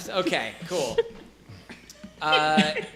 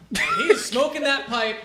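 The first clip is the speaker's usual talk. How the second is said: ordinary talk, nothing marked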